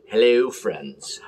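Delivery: slow, hushed sportscaster hello; Jim Nance greeting. Retold or imitated. Impersonating Jim Nance to his viewers, slow and hushed. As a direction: lean into a golf broadcaster's welcome. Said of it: "Jim Nance in Australia".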